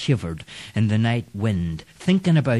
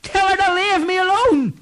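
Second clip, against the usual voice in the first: high, louder desperate cry; shouting for help; 3 dB louder than usual. Acted. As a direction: call out in terror. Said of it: "Clancy shouted".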